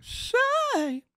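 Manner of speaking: Herbert's call. Acted. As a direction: call out like a creepy old neighbor. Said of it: "No, I can't do it".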